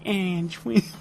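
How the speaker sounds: high, drawn-out ad-announcer "twins"; announcer impression. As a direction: sell it like a beer commercial voice-over. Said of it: "have some guy be like".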